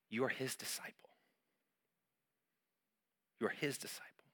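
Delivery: hushed, tender whisper; whispered reassurance. Acted. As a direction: whisper "you are his disciple" softly. Intimate reassurance after loud appeal.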